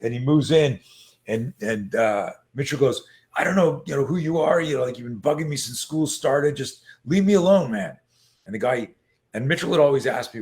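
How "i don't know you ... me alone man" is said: put-on higher-pitched, pleading-annoyed kid; exasperated retold plea, building at the end; retold protest. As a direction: act out a kid standing up to a bully. Retold kid standing up to bully.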